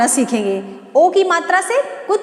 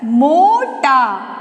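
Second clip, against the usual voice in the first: slow word spelling; 3 dB louder, much slower than usual. Shown as a demonstration. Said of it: "क्या हो गया?".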